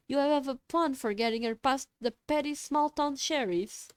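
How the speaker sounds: a hint of an imperious boss; haughty boss voice. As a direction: speak down like a cult leader. Boss voiced over comms.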